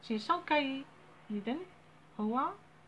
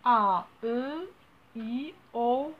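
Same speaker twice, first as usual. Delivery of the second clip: each vowel letter called out separately, louder; teacher naming the vowels one by one, loud and clear; calling out letters; 6 dB louder, much slower than usual. Shown as a demonstration. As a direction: list the vowels out loud to the class. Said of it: "les voyelles هما".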